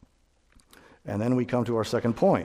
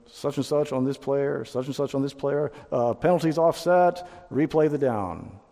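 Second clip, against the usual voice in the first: imitating a referee; 3 semitones higher than usual. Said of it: "the ref will come out and say".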